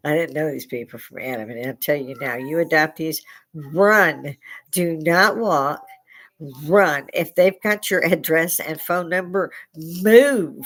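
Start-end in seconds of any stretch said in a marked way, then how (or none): 3.5-10.6 emphatic, punching the commands loud; urgent warning. Real, not acted. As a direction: warn them off with drawn-out, forceful commands. Mock-urgent warning to adoptees.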